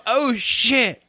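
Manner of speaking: high alarmed exclamation; acted dread. Storyteller playing Bob feeling the lizard head downward, high alarm. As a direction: imitate a coworker's dawning panic.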